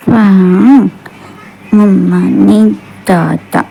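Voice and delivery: lightly voiced toddler tattling; slow, halting answer like a hurt toddler; a hint of sulky small child; little child's complaint. Acted toddler complains to her father.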